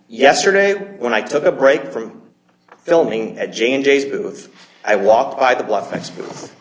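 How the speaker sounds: reading aloud slowly for the record; slow, deliberate reading. Real, not acted. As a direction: read it out slowly, leaving small gaps between phrases. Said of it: "I'm gonna read this slowly".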